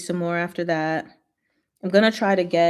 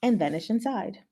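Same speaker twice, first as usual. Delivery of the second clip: story narration. A narrator's reading. Reads novel narration aloud.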